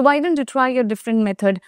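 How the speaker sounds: slow, careful question; slow example. Shown as a demonstration. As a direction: model it clearly for learners. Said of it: "example repeated". (ধীরে উদাহরণ)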